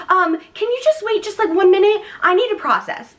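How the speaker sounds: high-pitched, polite plea for time; mock nervous stalling. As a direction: act out anxiously buying a moment. Retold stalling of the midwife.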